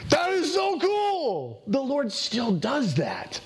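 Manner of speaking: awed delight. Real, not acted. Preacher marvels at God speaking.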